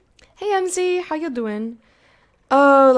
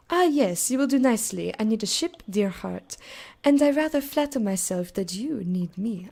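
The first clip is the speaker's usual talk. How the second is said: sly French lady. Acted. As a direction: coax the captain, silky and sly. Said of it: "I don't know why I made her French".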